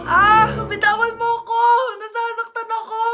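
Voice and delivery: distressed protest. Acted. Telling someone to let go, distressed. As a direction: protest as if being hurt. Protesting being held and hurt.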